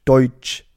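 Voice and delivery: "deutsch" drawn out and over-articulated; sehr deutlich. Shown as a demonstration. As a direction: say "deutsch" slowly and distinctly. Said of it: "sehr deutlich und mit, mit Stoppen drinne". („deutsch“ langsam und überdeutlich)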